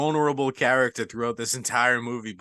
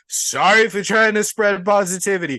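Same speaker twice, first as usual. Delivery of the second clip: raised, emphatic sarcastic-sounding apology; wounded mock apology; 4 semitones higher than usual. Character apologising to people mocking his fall, wounded mock apology. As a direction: protest your good intentions to the mockers. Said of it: "And you're like".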